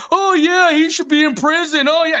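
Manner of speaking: high mocking imitation of Hank; mocking quote. Mocking Hank's agreement to his face, high and snide. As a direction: sneer it back in a high put-on voice.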